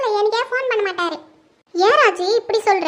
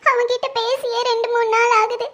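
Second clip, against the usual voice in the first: tearful; 2 semitones higher than usual. Acted. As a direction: let the tears catch in the words. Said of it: "ஏன் அத்தை அழுதுட்டு இருக்கீங்க".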